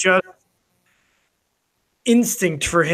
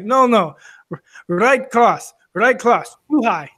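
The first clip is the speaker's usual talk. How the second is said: imitated Russian boxer, slightly raised pitch; Russian accent; 3 semitones higher than usual. Russian fighter giving advice to a beaten sparring partner, Russian accent. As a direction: coach in a Russian accent, short repeated corrections. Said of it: "spoke with a Russian accent".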